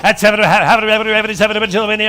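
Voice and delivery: rapid auction chant; auctioneer. Acted. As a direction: rattle off bids like an auctioneer. Auctioneer running the bidding.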